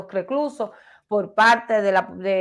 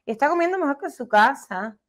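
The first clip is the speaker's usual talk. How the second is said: Mariela's little voice. Retold or imitated. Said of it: "con esa vocecita".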